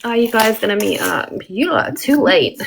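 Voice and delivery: put-on light northern English accent. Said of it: "I'm loving the northern accent".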